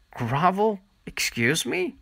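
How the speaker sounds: high, offended disbelief; indignant outrage. Acted. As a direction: shoot up high in offended shock. Shelley outraged at insult.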